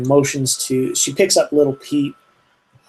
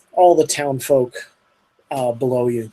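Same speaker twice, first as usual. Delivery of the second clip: Canadian accent. Real, not acted. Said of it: "I just heard you say".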